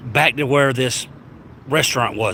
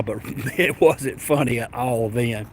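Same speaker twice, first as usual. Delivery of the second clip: laughing through words; 4 dB quieter, slower than usual. Real, not acted. Laughing while recalling ordeal.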